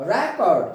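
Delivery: record said REK-ord, strong start and lighter end; stress on first syllable. Shown as a demonstration. Teacher repeating noun examples, record with first-syllable stress. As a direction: lean hard on the start of record. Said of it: "खींच कर बोलेंगे".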